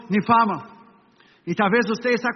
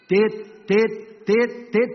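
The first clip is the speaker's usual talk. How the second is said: quickening monitor beep; much slower than usual. Retold or imitated. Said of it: "el monitor empezó a hacer tit".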